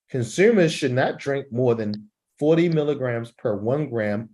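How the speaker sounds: short pauses at the commas, a longer stop at each full stop; pausing at punctuation. Shown as a demonstration. Teacher demonstrates phrasing at commas and full stops. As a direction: let the voice rise and fall with the sense. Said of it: "You notice I paused at the comma".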